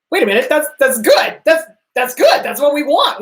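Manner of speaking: high bright cheer of praise; celebratory cheering; mock cheer. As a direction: cheer the client on like it's great news. Therapist cheering a client on.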